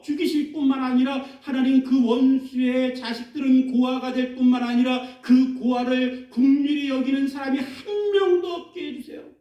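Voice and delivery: preacher hamming up David's revenge prayer; David's bitter curse. Retold or imitated. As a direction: pour out the grudge to God. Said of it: "다윗이 하나님을 향해서 이렇게 얘기합니다".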